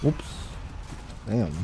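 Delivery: ordinary talk, nothing marked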